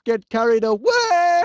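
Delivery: words breaking into a yell mid-sentence; startled shout cutting off the motto; alarmed yell. Acted. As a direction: cry out as you are carried off. Yelps as he is swept off.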